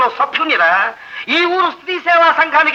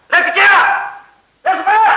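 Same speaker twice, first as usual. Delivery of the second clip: raised calls across the house; calling out servants; 5 semitones higher than usual. Acted. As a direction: shout for the servants. (పనివాళ్ళను గట్టిగా పిలవడం)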